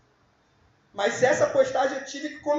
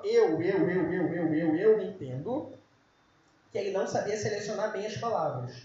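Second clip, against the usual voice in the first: mock stutter; 5 semitones lower than usual. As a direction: stumble over each eu. Acts out a heavy-tongued Moses.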